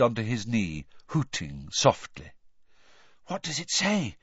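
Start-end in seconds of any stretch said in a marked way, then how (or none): 3.3-4.2 high, breathless question. A narrator's reading. Hermione eager to hear the letter, breathlessly. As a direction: ask with bated breath. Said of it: "Hermione asked breathlessly".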